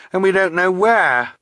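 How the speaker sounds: high, upset exclamation; anxious high-pitched cry; distressed protest. A narrator's reading. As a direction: raise the pitch in helpless worry. Violet distressed at losing her friend.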